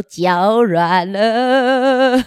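very slow wobbly trembling words; shaky voice. Pretend. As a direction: let the words wobble like jelly legs. Squad legs shaking.

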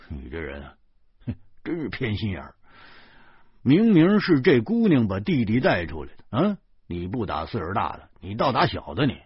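a hint of a cold scoffing laugh; mildly mocking a biased uncle; 冷笑着说; sneering. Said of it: "他冷笑着说".

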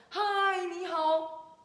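high, abrupt hailing call; startling high-pitched storybook hello; sudden shout. Acted. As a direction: burst out with a greeting. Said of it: "这么凶的人突然间喊".

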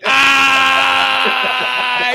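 caught-out yelp. Retold or imitated. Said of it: "I was like".

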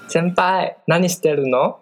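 put-on sweet coaxing anime girl voice; cutesy dating-sim voice. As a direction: coo it like a dating-game heroine. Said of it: "你可以帮我用很嗲的声音问说你在干嘛吗？ 用日文".

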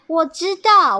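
high, loud burst; eager announcement. A narrator's reading. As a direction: jump in eagerly with the answer. 角色抢着说出好办法. (兴奋地高声抢答)

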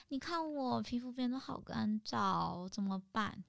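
slow, sugary little whine; coy whine. Retold or imitated. Friend clinging to the godfather's arm, slow and coy. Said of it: "然后勾他手说".

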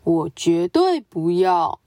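a solemn, noble zebra brushing them off; serious zebra. Acted. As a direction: zebra politely declining to play. Zebra refuses firmly.

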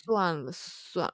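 slow, soft, defeated "算了，算了"; despairing sigh. Retold or imitated. Retelling her heartbreak to the cohost, slow and defeated. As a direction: give up on him, heart turned to ash. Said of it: "心如死灰这样".

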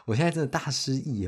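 a real laugh spills over the words. Real, not acted. Vlogger laughing at his own memory lapse, high amused voice.

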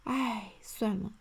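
disappointed sigh. Acted. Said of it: "失望地说".

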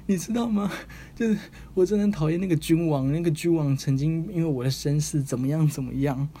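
a wounded man's high, indignant rant; bitter complaint. Retold or imitated. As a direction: vent old grudges in a rush. Wounded man pours out grievances.

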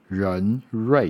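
人瑞 said with a clear curled-tongue r on both syllables; 人瑞, both syllables starting on a careful r; clear r sound. Shown as a demonstration. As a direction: sound out 人瑞 as a model for the r. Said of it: "都有日的声音".

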